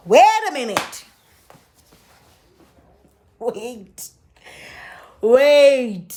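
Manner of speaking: a slow, halting double take; stunned wait. Retold or imitated. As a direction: stop short as it dawns. Realising the lie.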